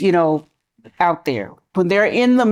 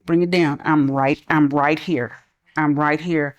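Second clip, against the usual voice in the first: calm; 3 semitones lower than usual. Retold or imitated. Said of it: "I was like".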